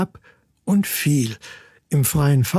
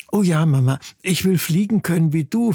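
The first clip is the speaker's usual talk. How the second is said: higher, eager chick voice; delighted; 3 semitones higher than usual. Acted. Daughter chick wants to fly like her mother, delighted. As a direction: burst out with a little joy. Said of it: "freute sich Solveig".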